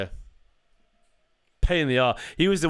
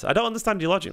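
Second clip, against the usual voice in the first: exasperated disbelief; 8 semitones higher, faster than usual. Real, not acted. Arguing with viewer in chat.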